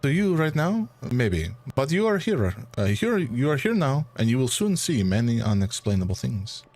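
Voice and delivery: light French accent, lightly voiced; a hint of a French gentleman; understated French-accented reply. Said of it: "keep this accent".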